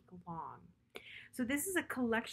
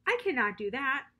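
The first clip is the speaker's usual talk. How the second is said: louder, higher refusal; shouting; 4 semitones higher, 6 dB louder than usual. Acted. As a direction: insist loudly. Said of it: "shouted Toad".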